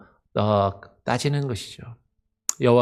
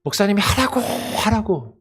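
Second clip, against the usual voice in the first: higher, put-upon grumbling; complaining churchgoer; 4 semitones higher than usual. Retold or imitated. Church member grumbling to the pastor, higher aggrieved whine. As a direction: air a string of grievances to the pastor. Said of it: "그렇게 따지고 불평하는 것과 같다".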